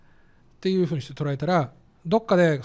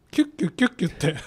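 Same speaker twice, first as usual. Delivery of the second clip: squeaky polishing noise; faster than usual. Retold or imitated. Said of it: "音出して磨く".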